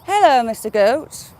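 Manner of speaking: hint of a mock-posh hello. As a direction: greet the goat like a mock gentleman. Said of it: "I'm putting the posh voice on".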